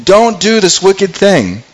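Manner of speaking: high, slow desperate pleading; retold plea of a frightened sister. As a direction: beg him to stop, voice climbing high. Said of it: "She's, like, pleading".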